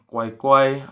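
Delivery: "kuai-kuai" slow, held level; teacher's slow tone model of "kuai-kuai"; intonation demo. Shown as a demonstration. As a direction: draw out both halves of "kuai-kuai". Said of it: "ya, intonasinya ya".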